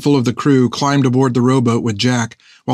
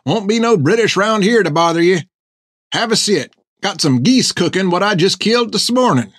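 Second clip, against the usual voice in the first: put-on cackling old hermit; 8 semitones higher than usual. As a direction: crow it back, cracked and gleeful. Hank welcomes the crew.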